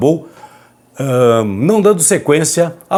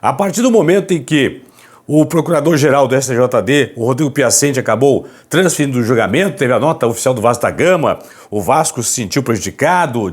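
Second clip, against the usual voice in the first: hushed, hoarse voice from a sore throat; raspy whisper. Real, not acted. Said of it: "Falando baixinho aqui".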